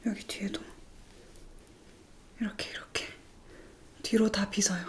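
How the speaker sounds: very soft unvoiced whisper. Real, not acted. Combing the back, whispering to viewers. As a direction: barely breathe the words.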